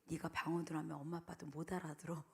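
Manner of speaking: put-on softly teasing the boy; confiding hush. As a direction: tell him it like a secret. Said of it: "그랬더니".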